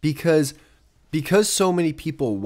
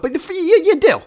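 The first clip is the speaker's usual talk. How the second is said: laughing mock; 7 dB louder than usual. Mocking, laughing at YouTuber.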